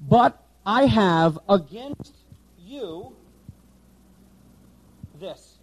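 slow word-by-word Greek order; slow literal reading. Shown as a demonstration. Teacher reading the Greek word order slowly. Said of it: "now watch this".

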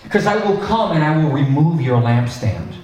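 measured, mildly stern warning; paraphrased warning. Retold or imitated. Jesus warning a church he may visit, mildly stern. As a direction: lightly voice a threat, without raising it. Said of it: "he says it kinda like this".

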